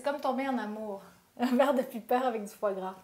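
about to take a bite; speaking before eating; holding food near mouth. Real, not acted. Seen 0: Holds small bite while talking, brings it to lips near end.

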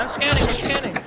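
high, hurried and eager; excited. Real, not acted. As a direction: rush it out, pumped.

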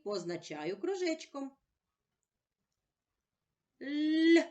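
окремі звуки «Й», «І», «Л», голосніше; кожен звук чітко окремо; isolated sounds. Shown as a demonstration. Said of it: "побудуємо звукову модель".

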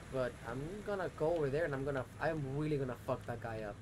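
low, quiet seething threat; seething anger. Real, not acted. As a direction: mutter the fury under breath. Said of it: "excuse the rage".

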